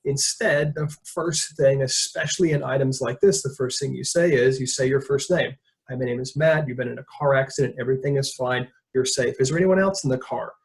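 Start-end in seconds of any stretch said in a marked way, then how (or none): 5.9-10.5 calm, gentle and reassuring. Retold or imitated. Calming a scared woman after a crash, calm and reassuring. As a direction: settle her down as you speak. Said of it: "Very calm, very slow".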